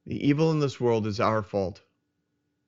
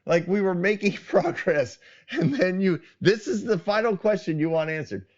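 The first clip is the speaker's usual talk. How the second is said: exasperated outburst; 6 semitones higher than usual. Retold or imitated. Imagined exasperated outburst at couple.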